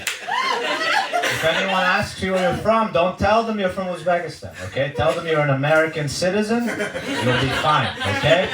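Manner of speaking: a hint of a hushed, coaxing mom; lightly voiced mom soothing her son; immigrant mom reassuring. Mom coaching son before school, hushed and coaxing. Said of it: "She's like".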